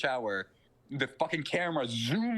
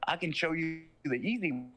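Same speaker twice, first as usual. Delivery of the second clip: devil offering; 5 semitones higher than usual. Retold or imitated. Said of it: "And he goes".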